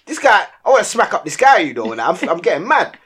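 retold irritation, half-voiced; grumbling to himself about the driver; a touch of heated venting; mock annoyance. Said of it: "I'm like".

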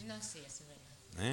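speaking away from the microphone; off-mic and distant; far from mic. Real, not acted. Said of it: "acércate al micro".

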